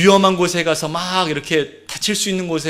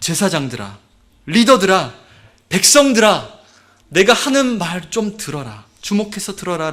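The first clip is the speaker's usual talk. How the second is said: strong warning; 2 semitones higher than usual. Acted. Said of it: "그렇게 강력하게 경고의".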